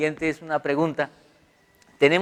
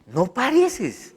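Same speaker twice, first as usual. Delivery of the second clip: laughing tease; 8 semitones higher, much slower than usual. Retold or imitated. Stranger teasing, laughing.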